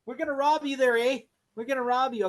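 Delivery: mock Canadian thug, light; a hint of Canadian, "eh"; Canadian accent. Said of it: "they're Canadian".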